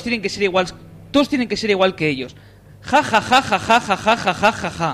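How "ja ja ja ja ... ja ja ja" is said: hammed-up evil villain laugh; mock sinister vampire cackle. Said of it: "Es risa malvada".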